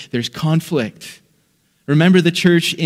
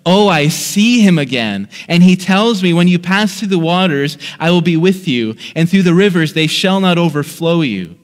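a mildly raised, joyful cry; loud outburst; 2 semitones higher, 3 dB louder than usual. Acted. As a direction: lift the voice a little, as if breaking out. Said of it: "broke out in a loud voice and said".

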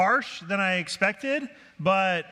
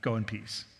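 kindly; 5 semitones lower than usual. Acted. Pastor releasing unconvinced members to other churches, kindly. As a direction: let them go kindly, voice dropping low. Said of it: "we wanna just kindly say".

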